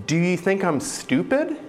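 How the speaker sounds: lightly acted irritated grown-up; angry adult. Grown-up scolding a child who missed the point, mock angry. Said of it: "someone said to you".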